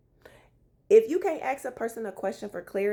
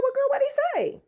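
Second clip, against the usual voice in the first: eager question; 13 semitones higher, faster than usual. Retold or imitated. Retelling asking the friend eagerly. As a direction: demand the gossip.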